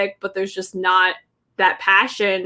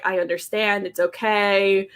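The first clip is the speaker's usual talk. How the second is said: soft reassurance; 2 semitones lower, 4 dB quieter than usual. Retold or imitated. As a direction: ease her gently into it.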